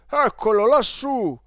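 high, loud cry of discovery; exclaiming. Acted. Clerk spotting the boy on the luggage rack, exclaiming. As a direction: call it out to everyone searching. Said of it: "ed esclamò".

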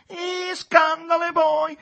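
high, loud, drawn-out disbelief; scandalised retort. A narrator's reading. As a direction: echo it back in affront. Capolino retorts, shocked. (replica scandalizzata, acuta e forte)

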